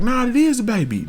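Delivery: mock insistence. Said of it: "They like".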